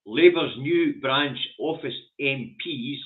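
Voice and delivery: slow careful restart of the read; cold read stumbling. Real, not acted. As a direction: read it slowly after a stumble. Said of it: "let me start that again".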